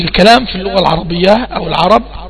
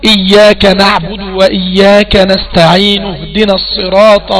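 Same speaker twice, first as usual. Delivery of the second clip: slow recitation running the verses together; slow connected recitation; Quran recitation joined; slower than usual. Shown as a demonstration. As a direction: recite straight on without stopping. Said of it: "لو حبيت أوصل أقول إيه".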